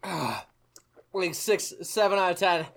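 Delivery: talking while drooling. Real, not acted. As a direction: speak with a drooling mouth. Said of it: "I'm drooling".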